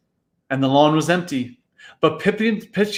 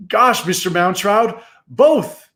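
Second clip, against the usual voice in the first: excited outburst; 6 semitones higher than usual. Acted. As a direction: burst it out with joy. Boys bursting out their answer.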